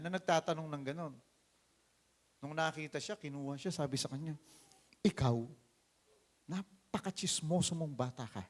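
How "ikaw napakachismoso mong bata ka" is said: loud, high, harsh scolding; scolding big brother. Acted. Older brother scolding David for showing up, loud and harsh. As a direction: tear into the nosy little brother.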